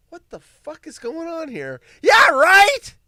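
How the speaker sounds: high, loud incredulous shout; outraged disbelief. Real, not acted. Shocked at the AI lady's comeback, an incredulous shout. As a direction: yell in mock outrage. Indignant at the AI's reply.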